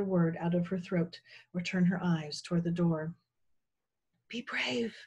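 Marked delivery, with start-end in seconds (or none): 4.3-5.0 soft, high hushed encouragement; quietly steady a frightened friend; whisper. A narrator's reading. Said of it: "the bone whispered".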